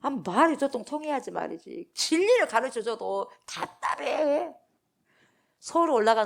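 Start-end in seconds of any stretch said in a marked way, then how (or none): 0.0-4.5 slow, drawn-out sigh of frustration; exasperated teacher whose words get nowhere. Acted. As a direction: let the frustration drag each word out. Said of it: "예수님이 답답하셔요".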